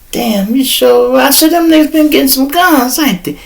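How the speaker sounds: retold surprise.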